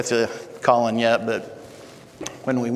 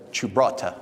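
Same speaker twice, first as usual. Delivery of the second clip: put-on amateur Italian accent on the insult; attempted Italian accent; 2 semitones lower than usual. Film producer dismissing young actress, in attempted Italian accent. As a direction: try your best Italian accent. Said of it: "I'll try to do my best Italian accent here".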